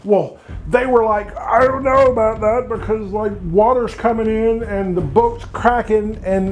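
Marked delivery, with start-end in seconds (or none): 1.4-6.5 a high, fretful sailor voice; worried sailors. Acted. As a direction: list the dangers in a worried rush. Sailors doubting, panicky.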